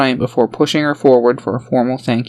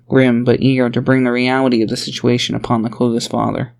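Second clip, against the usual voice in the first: plain reading voice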